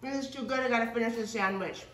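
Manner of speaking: laughing through a mouthful; mouth full. Real, not acted. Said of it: "I can't talk anymore".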